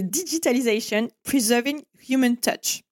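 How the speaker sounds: English slogan in a French accent; real French accent on English words. Real, not acted. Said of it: "Avec mon magnifique accent".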